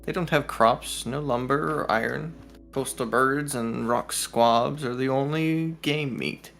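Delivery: measured story-reading delivery; storybook narration; game master reading. Acted. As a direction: read the villager's lore out evenly, phrase by phrase. Game master reads the woman's lines.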